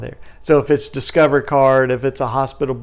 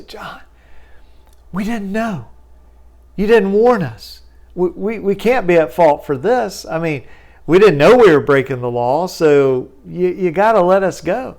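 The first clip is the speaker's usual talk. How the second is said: higher, pleading lawyer voice; defensive lawyer pleading innocence; whiny opposing lawyer; 4 semitones higher than usual. Retold or imitated. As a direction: play the caught collector's lawyer begging off.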